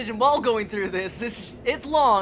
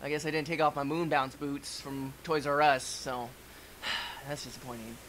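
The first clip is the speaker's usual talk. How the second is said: mock disappointed astronaut; 7 semitones lower, 6 dB quieter than usual. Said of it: "and it's like".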